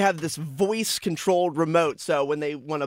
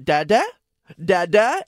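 put-on louder childlike calls to the remote; toddler voice; 3 semitones higher, 5 dB louder than usual. Dad imitating his toddler calling the remote, childlike. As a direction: repeat Dada like a tiny kid. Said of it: "she'll go".

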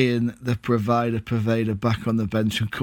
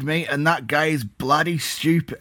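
put-on accent sliding into Australian; accidental Australian accent; 3 semitones higher than usual. Co-host joking about fan, accent turning Australian. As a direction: let bloody slip into mock Australian. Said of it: "I turn Australian".

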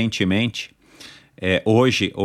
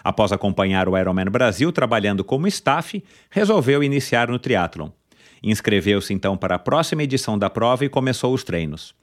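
upbeat podcast host intro; announcer intro; 5 semitones higher than usual. Acted. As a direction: build up to the guest's name. Announces the guest's biography.

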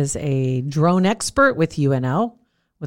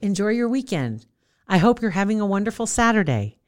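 imitating voice assistant; 5 semitones higher than usual. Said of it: "Sometimes it's".

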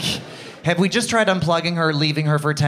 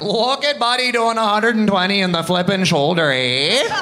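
higher-pitched mock Ottawa local accent; Ottawa East End accent; 6 semitones higher, 3 dB louder than usual. Comic mimics the locals from home, Ottawa East End accent. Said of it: "The only accents that I was ever exposed to".

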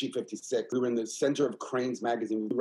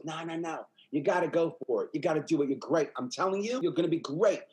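imitating an eager backer, mostly higher; retold pep talk, pressing and higher; insistent encouragement; 4 semitones higher than usual. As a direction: push them to go for it, voice lifted. Retells comedian urging her on.

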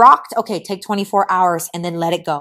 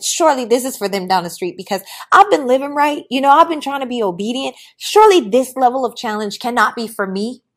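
higher-pitched, indignant pleading; mock protest; 4 semitones higher, 4 dB louder than usual. Speaker protesting that this challenge is meant for neighbours, mock indignation. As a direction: argue your innocence with hammed-up disbelief. Acts out protest at hard times.

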